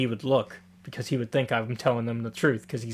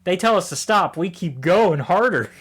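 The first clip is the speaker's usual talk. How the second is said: higher, emphatic rallying cry; mock rousing speech; 4 semitones higher than usual. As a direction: imitate a leader firing up the troops. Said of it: "a Independence Day level speech".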